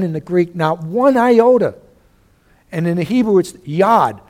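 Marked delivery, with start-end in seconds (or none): 0.6-1.8 slow, higher and louder on "not one iota"; emphatic. Acted. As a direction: stretch "one iota" out with raised pitch and force. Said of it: "is stated emphatically".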